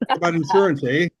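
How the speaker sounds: cop with a lightly put-on Wisconsin accent. Wisconsin cop pulling the comic over for speeding, Wisconsin accent. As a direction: play a Wisconsin traffic cop's accent. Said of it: "he's got the Wisconsin accent".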